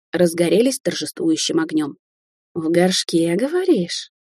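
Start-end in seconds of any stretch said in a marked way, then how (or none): 2.5-4.1 triumphant rising question; delighted cry. Acted. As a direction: pitch leaps up in triumphant excitement. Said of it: "восторженно закричала она".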